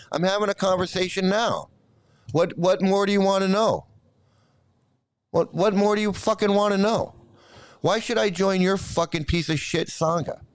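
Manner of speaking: indignant, insistent questioning; real irritation without shouting; angry retort. Real, not acted. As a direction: demand an answer from the viewer, exasperated. Heated retort to a viewer.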